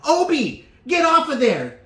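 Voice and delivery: high, loud call then babble; hammed-up shout at the kid; mock mom yell. Mother yelling at son on the belt, mock shout.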